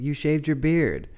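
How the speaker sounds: put-on a small boy pointing it out, slowly; child's voice. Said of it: "He's like".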